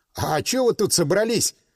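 ordinary delivery

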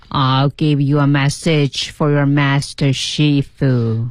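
low, flat monotone, all in one breath. Repeating a quoted line to master Shifu, flat, in one breath. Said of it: "调都没变的那种啊，一口气调都没变。".

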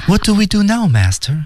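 sweet, innocent, adorable, naive tone. Acting out a short English line, cute, naive tone. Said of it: "有点天真和萌萌哒感觉哈。这就是萌萌哒的感觉。".

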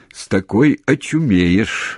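loud, fond, good-natured grumbling. He answers Frosya's teasing retort, grumbling without offense. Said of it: "буркнул он без обиды".

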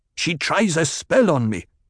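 gasped out. A man says a woman is casting a spell on him, gasping. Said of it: "Jamis gasped".

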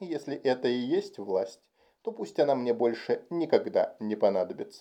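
ordinary delivery

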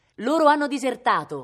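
very loud, high, victorious, triumphant voice. Viola announces news to Cosimo; triumphant announcement. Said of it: "annunciò trionfalmente".

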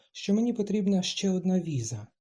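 plain reading voice

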